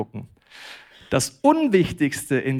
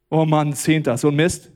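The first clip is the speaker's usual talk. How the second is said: louder, exasperated mock grumble; grudging reading; 5 dB louder than usual. Preacher shows a Christian reading the tithe verse, grudging. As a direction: grumble it like an unwelcome bill. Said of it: "Mit was liest du das?".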